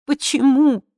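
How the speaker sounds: the second why breaks into a wail; anguished cry. Acted. Daughter begging her mother, anguished cry. Pleading question repeated.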